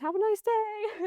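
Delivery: sweetly sarcastic parting shot to the angry woman; sarcastic farewell. Retold or imitated. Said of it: "and I said".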